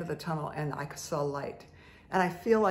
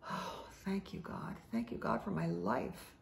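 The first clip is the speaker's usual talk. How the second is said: soft, airy sigh of thanks; hushed grateful prayer; 3 semitones higher, 8 dB quieter than usual. Retold or imitated. Speaker retells thanking God under the sun, hushed grateful prayer. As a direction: breathe out thanks to God, softly.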